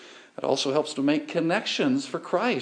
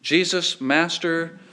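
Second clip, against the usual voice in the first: lightly raised call from a distance; 3 semitones higher, slower than usual. Retold or imitated. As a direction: mildly call to the Master. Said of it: "leprous men raise their voice to Jesus".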